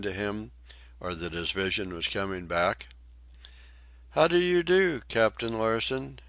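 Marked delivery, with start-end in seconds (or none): 4.1-6.2 put-on much higher, louder young lady voice; lady's answer. A narrator's reading. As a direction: answer the captain in a high ladylike voice. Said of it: "she answered".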